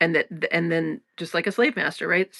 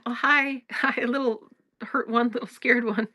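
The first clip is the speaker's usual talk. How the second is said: tender greeting; 4 semitones higher than usual. Retold or imitated. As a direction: gently greet the scared little one inside. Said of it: "the tenderness of it".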